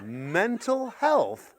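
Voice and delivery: slow, drawn-out baffled question; puzzled repeat. Retold or imitated. Parent baffled by the kids' advice, slow puzzled question. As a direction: stretch it out, bewildered. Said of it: "The kids are going".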